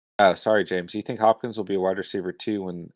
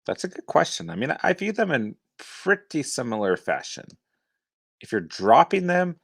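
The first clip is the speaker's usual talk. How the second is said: put-on Texas accent; 9 semitones higher than usual. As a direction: lay on a playful Texas accent, pitched up. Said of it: "That's John doing a Texas accent".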